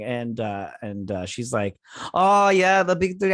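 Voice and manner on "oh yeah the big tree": high, loud delighted exclamation; gushing excitement. Retold or imitated. Retelling Yelena's love of American Christmas, gushing with excitement. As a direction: burst out with acted delight.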